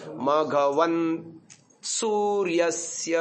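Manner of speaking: मघवन् ending with a jerk on न्, no vowel; clipped stop. Shown as a demonstration. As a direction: stop sharply on the final न् of मघवन्. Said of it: "झटका देके रुकना है ना". (झटके से न् पर रुकना)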